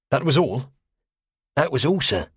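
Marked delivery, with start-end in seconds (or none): 1.6-2.3 high cockney sailor voice; wary cockney quartermaster answering; cockney accent. Acted. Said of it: "saturnine cockney".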